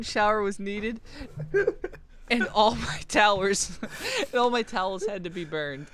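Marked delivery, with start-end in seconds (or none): 2.3-3.8 laughing through the words; giggling, losing composure. Real, not acted. Reading while laughing.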